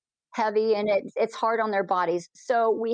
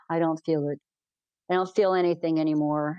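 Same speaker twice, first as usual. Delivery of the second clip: low-pitched, understated complaint; mildly downcast quote; 4 semitones lower than usual. Retold or imitated. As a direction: quote his letdown in a lower voice. Retells blind man's dejected complaint.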